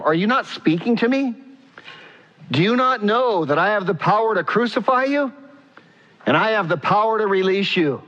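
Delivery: indignant questioning. Acted. Pilate questioning a silent Jesus, mildly indignant.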